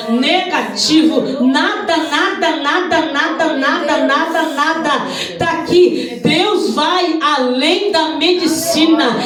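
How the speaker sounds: full-force, insistent pulpit cry; fervent preaching. Real, not acted. Preacher showing the church the negative report, fervent preaching. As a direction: hammer each repeated word to the congregation.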